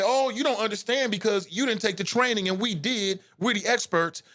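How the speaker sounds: hammed-up condescending officer voice; mocking cops. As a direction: sneer at them with their own words. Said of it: "You can't say".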